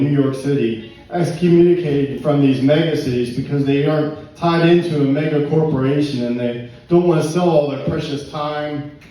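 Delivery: spoken-word recital in steady phrases; poetry reading. Acted. Poet reads early Cincinnati poem to audience, poetry reading.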